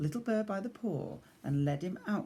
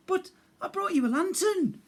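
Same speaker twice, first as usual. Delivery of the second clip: patient bear; 7 dB louder than usual. Acted. Big Bear, a bit exasperated.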